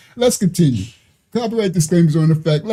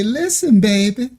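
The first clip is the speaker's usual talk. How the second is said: imitating Big Mama. Reacting to a clip, lightly imitating a Southern grandma. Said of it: "She talk like the old, ... Big Mama".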